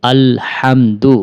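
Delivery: model recitation. Shown as a demonstration. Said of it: "আমার সাথে সাথে বলুন".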